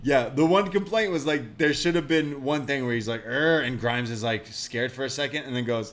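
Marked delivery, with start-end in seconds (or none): 3.3-3.6 loud zombie growl. Retold or imitated.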